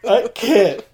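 high, loud playful protest; mock indignant protest. Friend bickering over a gift they can't use, mock indignant. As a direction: protest loudly in a squeal of mock outrage.

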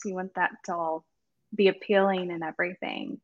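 talking between sips of water; words around a sip of water; while sipping a drink. Real, not acted. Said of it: "I'm sipping water like I'm testifying".

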